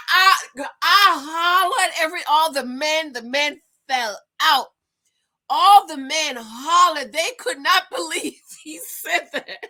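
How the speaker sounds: high, loud laughing retell; hollering with laughter. Real, not acted. To viewers, cracking up over the men's reaction.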